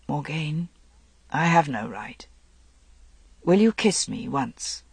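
soft, halting request; hushed plea. A narrator's reading. Hesitant plea after long silence.

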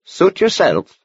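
put-on a gentle old monk speaking kindly; gentle old man voice. A narrator's reading. Horner replies.

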